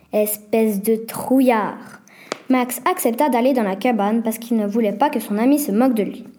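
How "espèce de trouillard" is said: chuchoté très lentement, sans voix; chuchotement moqueur. Acted. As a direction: souffler l'insulte pour taquiner. Taquinerie entre enfants. (Nina chuchote sa moquerie à Max)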